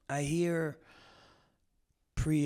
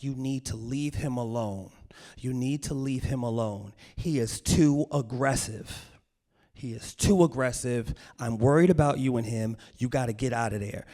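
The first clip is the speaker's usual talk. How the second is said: emphatic mother's warning, louder on the adjectives; ranting mother; 5 dB louder than usual. Retold or imitated. Mother to daughter about the boyfriend, insistent rant. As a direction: imitate a worried mom's firm rant. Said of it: "while simultaneously ranting".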